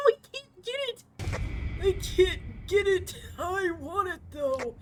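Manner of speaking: high, loud desperate yell; frantic shout. Real, not acted. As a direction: shout it in panic. Frantic grabbing in chase.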